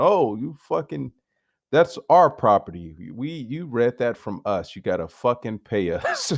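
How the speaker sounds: high, indignant mock voice of a company; mock greedy owner. A vlogger mocking a company claiming his quote as theirs, high indignant voice. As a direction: squeal it like an outraged rights holder.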